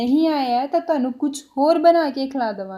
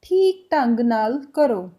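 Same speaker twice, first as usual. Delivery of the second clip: slow demo; slower than usual. Shown as a demonstration. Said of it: "इसको पंजाबी में कैसे बोल सकते हैं".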